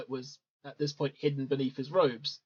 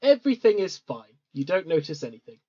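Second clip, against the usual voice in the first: a little sarcastic; 4 dB louder than usual. Real, not acted. Game master after a perception check, a little sarcastic. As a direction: reassure them with a touch of sarcasm. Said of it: "That sounded very sarcastic".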